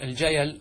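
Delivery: first "الجيل" as al-jayal, no hamza; vowelled ya. Shown as a demonstration. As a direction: run "الجيل" through as ja-yal. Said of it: "ما معنى ال".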